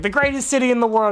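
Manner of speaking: mock Broadway grandeur. Mocking a Hamilton song lyric.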